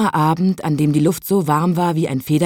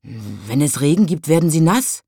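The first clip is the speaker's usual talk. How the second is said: mild grumble; 2 semitones lower than usual. Acted. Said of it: "brummte der kleine Nachtwächter".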